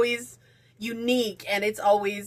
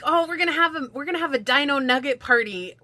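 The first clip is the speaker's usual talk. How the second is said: excited wife; 5 semitones higher, faster than usual. Retold or imitated. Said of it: "She's like".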